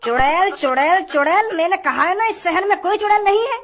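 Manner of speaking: fed-up officer dismissing a tall tale; exasperated denial. Acted. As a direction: repeat it with mounting irritation, pitch climbing. Officer rejects witch story.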